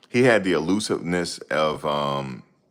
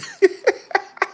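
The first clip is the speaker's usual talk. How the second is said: a sudden high laugh at his own joke; high burst of laughter; 3 dB louder than usual. Real, not acted.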